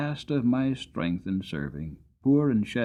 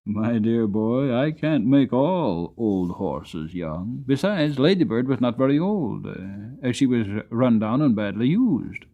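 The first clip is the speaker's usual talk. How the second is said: put-on gentle old grandfather; 4 dB louder than usual. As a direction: let the boy down gently.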